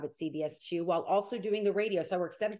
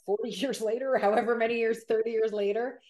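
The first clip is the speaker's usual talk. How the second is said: higher, laughing amusement; amused laughing; 4 semitones higher, 5 dB louder than usual. Real, not acted. Reporter laughing at her years-long schedule. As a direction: laugh at how long it's been.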